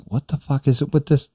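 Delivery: high, baffled squeak of disbelief; incredulous outburst. Retold or imitated. Listener puzzled by a catchphrase, mock incredulous high squeak. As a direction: throw up your hands in mock outrage. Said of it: "And I'm like".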